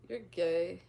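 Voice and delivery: very calm, casual delivery; deadpan, unbothered comeback; calm, nonchalant. Shown as a demonstration. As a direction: say it evenly and nonchalantly. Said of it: "just very calmly be like".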